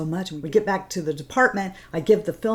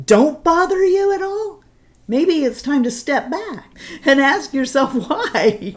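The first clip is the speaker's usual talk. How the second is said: impassioned; 10 semitones higher, 7 dB louder than usual. Real, not acted. Impassioned message to viewers.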